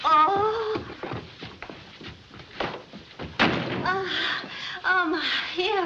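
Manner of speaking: swooning Southern belle. Acted. Feigned faint, Southern belle act.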